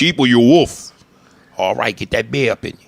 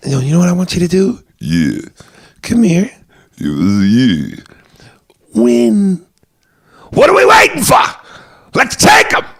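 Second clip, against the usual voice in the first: from fast and loud up to a very high yell; building shout; 7 semitones higher, 6 dB louder than usual. Retold or imitated. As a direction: whip the fighter into frenzy. Quoting Mickey, rising to shout.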